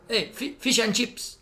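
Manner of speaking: high mock call to tourists; imitated hawker's hail. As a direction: call out like a cheeky street seller. Imitates hawker hailing British tourists.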